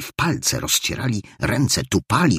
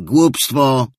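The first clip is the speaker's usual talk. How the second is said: exclaiming Scrooge; 6 semitones higher, 5 dB louder than usual. Acted. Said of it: "zawołał Scrooge".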